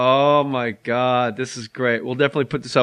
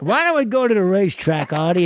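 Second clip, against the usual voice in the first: higher Buddy Hackett voice for the bird; Hackett-style bird voice; 4 semitones higher than usual. Retold or imitated. The parrot in Paulie, higher Hackett-style voice. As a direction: make the parrot sound like Hackett. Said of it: "same voice for all three guys".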